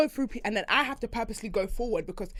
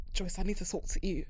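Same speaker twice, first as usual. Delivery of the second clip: softly, lower, imitating a solemn friend; imitating drunk friend; 3 semitones lower, 7 dB quieter than usual. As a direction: drop it low, mock-serious. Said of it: "so Victor was like".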